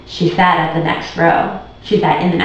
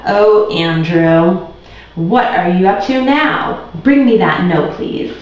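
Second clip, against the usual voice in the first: exasperated; slower than usual. Acted. Teacher exasperated with Andrew.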